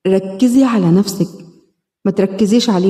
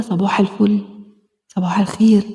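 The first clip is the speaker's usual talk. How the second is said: soft good morning; 2 semitones lower, 3 dB quieter than usual. Acted. A morning message to the inner child.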